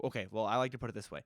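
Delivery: ordinary talk, nothing marked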